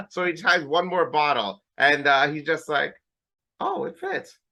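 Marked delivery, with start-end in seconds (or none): 3.6-4.4 high, hushed mock of dad; imitating father in a much higher, softer voice; father's voice.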